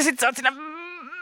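pidättelee. Acted. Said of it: "sä yrität pidätellä sitä".

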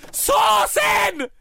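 sharp exclamation. Acted. Mother announcing leftovers.

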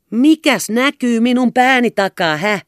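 loud, high irritated snap; snapping. A narrator's reading. Hinkki snapping at the clumsy rowing captain. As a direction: bark the question impatiently. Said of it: "tiuskasi hän".

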